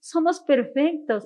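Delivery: each word slow and deliberate, Somos leaned on; slow emphatic repeat. Real, not acted. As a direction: stretch out Somos perfectos slowly, landing on Somos.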